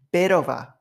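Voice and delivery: "bit of a" joined into one smooth word; linked together. Shown as a demonstration. Teacher repeats the linking for learners, words run together. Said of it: "くっつけちゃうんですよね".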